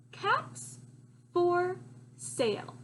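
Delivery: high, bright title announcement; excited title reveal. Acted.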